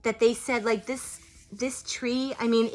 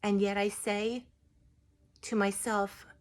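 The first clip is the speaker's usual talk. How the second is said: a gentle tree spirit softly offering help; 5 dB quieter than usual. Retold or imitated. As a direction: speak as the healing tree, hushed and reverent. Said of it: "what I heard in that parking lot".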